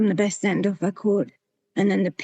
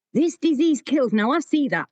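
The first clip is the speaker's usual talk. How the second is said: emotional; 5 semitones higher than usual. Real, not acted. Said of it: "and I will get emotional here".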